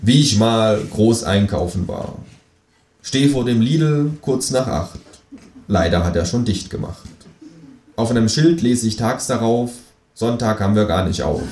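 declaiming a silly poem to the kangaroo. A narrator's reading. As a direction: recite it like a great poem. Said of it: "Ich deklamiere".

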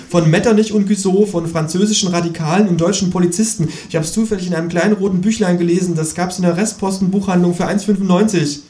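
high, loud ghost complaining; a hounded ghost listing its enemies. A narrator's reading. The ghost listing its pursuers, high and agitated. Ghost voiced in read story.

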